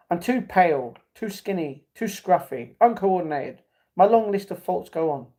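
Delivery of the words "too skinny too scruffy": ordinary delivery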